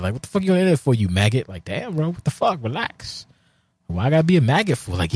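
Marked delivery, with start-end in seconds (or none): 0.1-1.5 mocking taunt. Acted internet quarrel, taunting bully. 1.6-4.9 high defensive whine. Retold or imitated. Acted quarrel, his own reply.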